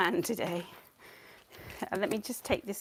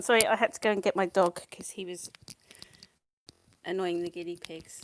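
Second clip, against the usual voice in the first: out of breath; 5 dB louder than usual. Real, not acted. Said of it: "Now I'm out of breath".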